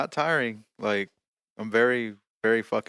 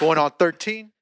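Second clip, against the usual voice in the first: hype rapper voice; 7 semitones higher, 5 dB louder than usual. Pretend. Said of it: "I'm a freestyle right now".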